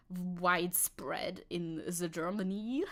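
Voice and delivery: put-on slow, drawn-out German accent; mock German-accented delivery. Streamer talking about WhatsApp in Germany, mock German accent.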